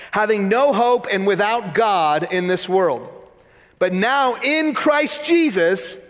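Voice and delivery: measured Bible reading, slowing on key phrases; steady pulpit reading of scripture. Acted. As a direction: read the passage with weight. Reads Ephesians passage aloud.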